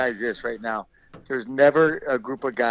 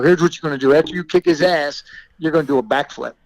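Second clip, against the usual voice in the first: louder, slightly raised coaching voice; retold pep talk; 3 semitones higher, 5 dB louder than usual. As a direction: fire up your wrestler, as retold.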